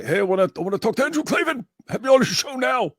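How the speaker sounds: high, fast eager pitch. Pretend. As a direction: rush it like an excited fan.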